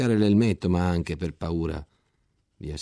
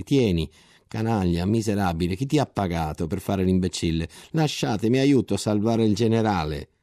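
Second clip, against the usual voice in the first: più forte, accusa a muso duro; urla rabbiose; 4 semitones higher, 5 dB louder than usual. Acted. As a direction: aggredisci a parole mentre picchi. Soldati furiosi picchiano il soldato. (soldati inferociti accusano il disgraziato, gridando più forte)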